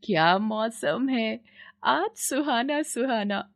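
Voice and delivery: slow, slightly slurred tipsy bahu; lightly played drunk young wife, giddy; tipsy daughter-in-law.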